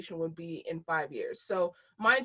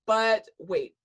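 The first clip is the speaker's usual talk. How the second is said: infomercial voice; 2 semitones lower, 3 dB louder, slower than usual. Pretend. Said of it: "I sound like an infomercial".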